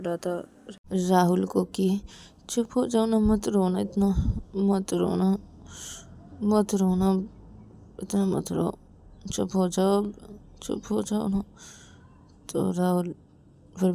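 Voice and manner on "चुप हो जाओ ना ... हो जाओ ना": gentle coaxing, lightly raised pitch; soothing. Acted. Ravi comforts weeping Rahul, soothing and coaxing. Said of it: "को रवि चुप कराए जा रहा था".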